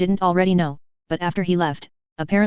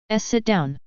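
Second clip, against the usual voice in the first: high squeaky wail; squeaky wailing elf; 4 semitones higher, slower than usual. A narrator's reading. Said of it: "he wailed in a voice reminiscent of a squeaky toy".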